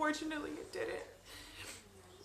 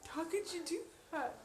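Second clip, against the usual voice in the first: higher-pitched, appalled questioning; upset disbelief; 5 semitones higher than usual. Retold or imitated. Mother confronting her ex about their daughter, upset disbelief. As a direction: confront him in pained disbelief. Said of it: "I got so upset".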